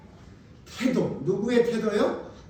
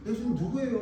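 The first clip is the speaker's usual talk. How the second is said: lightly voiced disciple, higher-pitched question; John; 5 semitones higher than usual. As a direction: ask it higher without raising the volume. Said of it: "그러니까 사도 요한도".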